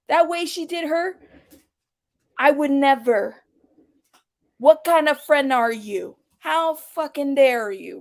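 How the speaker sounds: slow mock indignation, every phrase leaned on; deliberate, stretched mock outrage with pauses; emphatic imitation. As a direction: imitate her scandalized emphasis, drawn out. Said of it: "emphasizing a little bit of that".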